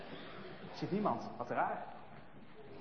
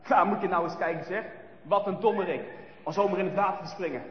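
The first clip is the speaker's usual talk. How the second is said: mocking bullies. Bullies mocking Brinkie in the ditch, sneering. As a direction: laugh at the wet boy. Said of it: "de jongens gemeen lachen".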